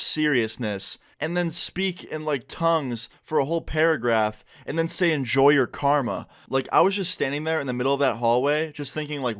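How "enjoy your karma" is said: drawn-out mock sinister line; retelling the curse slowly for eerie effect; slow, ominous. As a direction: let it hang like a threat.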